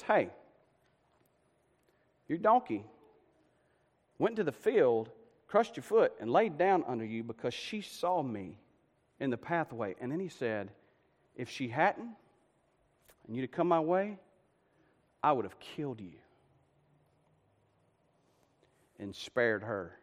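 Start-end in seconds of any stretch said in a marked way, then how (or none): 0.0-9.9 soft, low divine warning; hushed acted reproach; quiet rebuke. Angel quietly confronts Balaam. 11.3-20.0 very soft, low threat with long pauses; grave, restrained acted warning; quiet warning.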